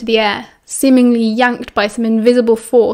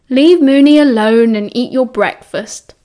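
chastising. Acted. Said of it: "James chastised".

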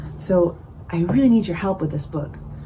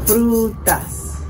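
Frutas drawn out as Fru-tas; syllable by syllable; 3 semitones higher than usual. Shown as a demonstration. Teacher counting with children, Frutas split in two. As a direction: clap two beats on Frutas. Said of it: "contar frutas".

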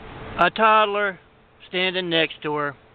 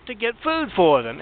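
higher, whining plea in a put-on voice; pleading mother; 6 semitones higher than usual. Mother pleading with guards over her kids, higher whine. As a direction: play the sob story back up, pitched high.

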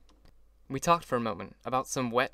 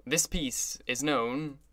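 slow, hearty announcement; lusty; much slower than usual. Acted. Orchestra leader finishing his announcement to the crowd, hearty and slow. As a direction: belt it out with relish. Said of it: "he concluded lustily".

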